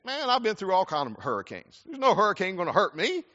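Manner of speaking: cocky beach local. Retold or imitated. Preacher mimics a careless beach local, cocky and high. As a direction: shrug off the storm like nothing can touch you. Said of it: "the attitude is this".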